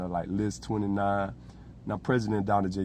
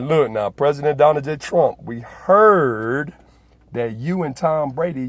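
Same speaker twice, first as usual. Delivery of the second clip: louder, dragged-out insult; mock aide tirade; 4 dB louder than usual. Aides voiced insulting Trump.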